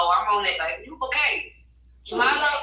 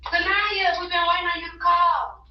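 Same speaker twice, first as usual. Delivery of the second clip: loud calling; 8 semitones higher, 3 dB louder than usual. Real, not acted. Mother answering daughter's call.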